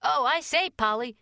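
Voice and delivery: put-on high, loud boyish call; excited scream. A narrator's reading. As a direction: burst in shouting, pitched well up. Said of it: "screamed Joel at that moment".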